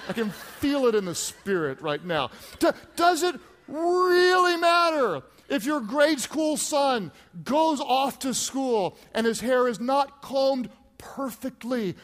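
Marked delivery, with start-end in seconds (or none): 2.6-11.9 rising preacher exclamation. Real, not acted. Preaching escalation, rhetorical.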